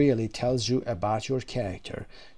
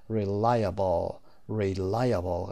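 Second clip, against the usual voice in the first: slow "reliable" with LI stressed; stress on second syllable; 3 semitones lower, much slower than usual. Shown as a demonstration. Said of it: "قسمت دوم هست".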